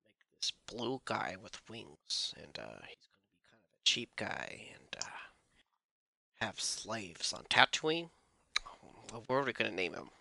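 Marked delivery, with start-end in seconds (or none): 0.0-8.1 George Lucas impression. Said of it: "same man who's just like".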